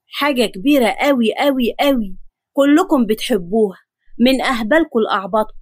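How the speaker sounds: mildly pompous grandfather; understated boastful announcement; self-important. Acted. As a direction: build yourself up with proud emphasis. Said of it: "وهو بيفخم في نفسه".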